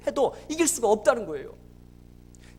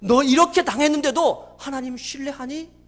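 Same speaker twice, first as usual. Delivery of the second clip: lightly voiced God, louder and insistent; God's pressing question; 3 semitones higher, 6 dB louder than usual. God testing the father's trust, insistent retold questioning. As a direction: press the question home with force. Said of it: "하나님 물어보더라는 거예요".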